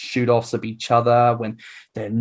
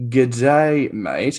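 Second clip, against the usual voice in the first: Aussie greeting; much slower than usual. Pretend. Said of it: "I've got it. I've got this".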